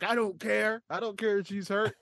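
a hint of a high, smug heel voice; lightly mock the callous Hollywood villain; gloating Andy Kaufman. Host imitating Kaufman brushing off the hurt woman, smug mock voice. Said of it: "And he's like".

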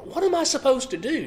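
mock-panicked plea to God; panicked Moses. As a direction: voice Moses as a worried man at his wits' end. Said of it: "sense of panic maybe in Moses' response".

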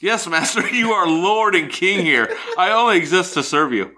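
servile voice. Pretend. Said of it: "I'll be the woman".

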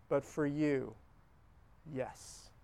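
soft, slow, fading yes; whispered yes. Shown as a demonstration. Preacher modelling a yes to Jesus, barely above a breath. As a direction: let the yes fall away gently.

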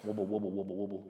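low rhythmic wobbling noise; quick, low burbling machine sound; imitated heartbeat monitor. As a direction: mimic the monitor's repeating pulse. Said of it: "it goes wobble".

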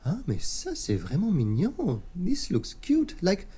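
delighted French lady, lightly voiced; French madame voice. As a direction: coo over something cute, French lilt.

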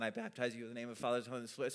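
fast, quiet "I baptize you in the name of the Father"; rattled-off formula. Retold or imitated. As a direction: rush through the baptismal words. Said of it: "what to say than".

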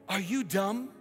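mock-scolding navigation voice, mildly irritated; lightly acted indignant GPS lady; ticked-off GPS. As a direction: tell off the driver in pretend exasperation. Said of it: "All ticked off".

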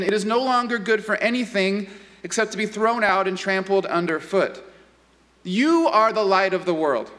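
measured, solemn Bible reading; a lightly heightened pulpit reading; scripture reading. Acted. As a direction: read the verses with reverence.

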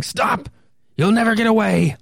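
high commanding shout at a fleeing suspect; police yell. Acted. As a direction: order the creature to halt. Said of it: "a police officer yelling".

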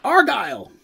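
calling out. Acted. Old dwarf calls for lost child.

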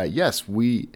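ordinary talk

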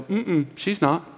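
slow, soft, lightly voiced dismissal; soft slow mock denial; dismissive professors. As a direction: shrug it off slowly like an unbothered professor. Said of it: "they go".

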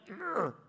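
short groan with attitude; disgusted groan. Retold or imitated. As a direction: imitate her scornful "ugh". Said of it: "she would just be like".

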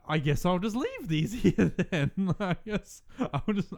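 slow, amused, trailing off; laughing mock shrug.

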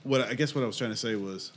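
stoned, losing the thread; high and searching for words; stoner. Real, not acted. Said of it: "I'm high as fuck right now".

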